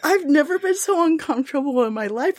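high, pained mock voice; quoting him. Host quoting an uncomfortable man, in a high whiny voice. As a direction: whine it like he's squirming. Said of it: "He said".

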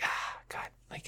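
barely voiced exasperated groan; weary sigh. Real, not acted. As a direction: sigh it out under the breath. Worn out by work schedule.

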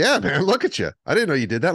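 high, loud mock accusation; incredulous roommate. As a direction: imitate a friend calling him out. Roommate's accusing retort in acted exchange.

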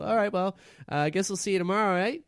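high-pitched, quick-talking guard; chatty guard. Acted. Guard ribbing Harold about his hump, chatty and high. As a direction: rattle it off high and chummy.

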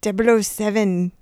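half-successful Scottish try; attempted Scottish accent. Shown as a demonstration. Co-host tries and gives up, shaky Scottish accent. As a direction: attempt Scottish and not quite get it. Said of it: "I can't do it".

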